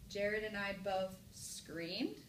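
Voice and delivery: slow, "screamed" swooping up as a question; question reading. Shown as a demonstration. Teacher compares marks for class, slow rising question. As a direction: ask it with a big rise on "screamed". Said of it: "Which way does it sound best?".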